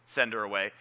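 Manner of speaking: low, matter-of-fact request; just ask, without pleading; understated, low-pitched request; mere asking. Retold or imitated. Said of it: "Not just asked him".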